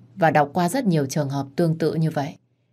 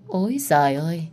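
mock exclamation. Lam scoffs at Hạ's lies, sarcastic. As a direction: scoff at the lie. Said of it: "chị diễn với em tới cùng".

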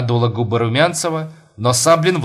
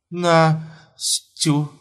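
syllable by syllable; 5 semitones higher than usual. Acted. Numb wife answers husband.

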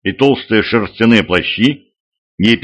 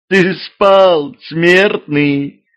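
laughing woman; 7 semitones higher, much slower than usual. A narrator's reading. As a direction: laugh it at him, much higher. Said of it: "рассмеялась за спиной какая-то женщина".

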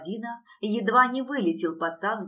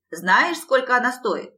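loud, higher indignant squawk; squealing protest; 4 semitones higher, 7 dB louder than usual. A narrator's reading. Long-nosed lad tugging Alisa from behind the guard, squealing. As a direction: protest loudly with raised pitch. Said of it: "верещал носатый".

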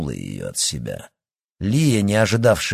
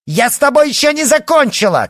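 very high, loud yell after someone leaving; furious girl yelling after her departing rival; shouting after her; 11 dB louder than usual. A narrator's reading. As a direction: scream it at her back as she walks away. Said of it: "крикнула ей вдогонку Лия".

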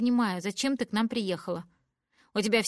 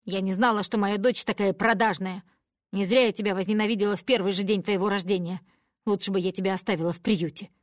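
loud hateful tirade; furious rant; 6 dB louder than usual. Acted. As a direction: pour out venom at the daughter. Mother berating daughter. (мать злобно кричит на дочь)

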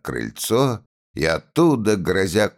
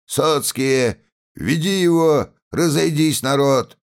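shouted orders; 8 semitones higher than usual. A narrator's reading. Constable orders men, crowd.

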